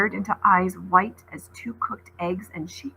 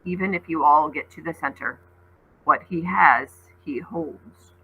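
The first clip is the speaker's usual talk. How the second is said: low creature voice; 3 semitones lower than usual. Acted. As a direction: weigh each word darkly. Creature's ominous warning.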